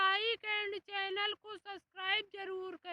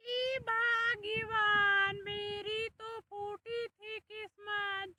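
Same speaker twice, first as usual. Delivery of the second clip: loud slow lament; 4 dB louder, slower than usual. Acted. Mother-in-law laments.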